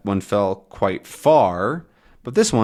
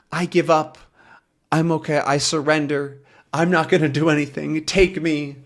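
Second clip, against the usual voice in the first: high-pitched mock surrender; 5 semitones higher than usual. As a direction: give yourself up, voice lifted. Acting out surrender.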